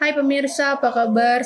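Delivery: put-on slurred, unclear, mumbled, mouth barely open. Voice lesson showing unclear articulation on a greeting: mumbled, mouth barely open. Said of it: "artikulasinya kurang jelas pasti gini".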